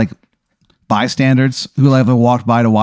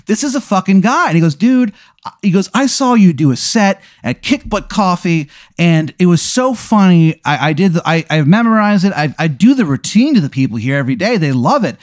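high, rushing fanboy voice; gushing fan; 6 semitones higher than usual. Acted. The inmate tells the comedian he memorised his set, high and gushing. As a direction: spill it all out like a starstruck fan.

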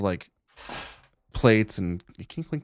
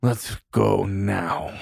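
challenging brother; much slower than usual. Acted. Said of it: "And he's like".

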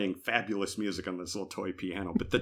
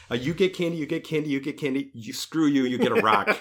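high, singsong doling out candy; lightly voiced kids, then a sneering "rock"; mock neighbor kids; 4 semitones higher, faster than usual. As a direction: hand out candy then snub him.

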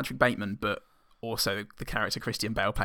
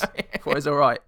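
put-on West Country accent; 3 semitones higher, 6 dB louder than usual. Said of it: "West Country accent".

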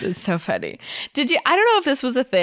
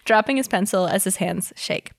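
story narration. Acted. Reads fanfic aloud.

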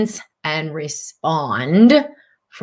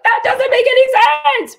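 much higher, louder mock protest; skeptical listener; 6 dB louder than usual. Teacher voicing a doubting student's mock protest, much higher and louder. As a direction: play the listener who scoffs at the idea.

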